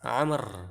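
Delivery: amr with no vowel after the r; correct reading. Shown as a demonstration. Teacher giving students the correct amr, waw silent. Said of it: "bukan, tapi amr".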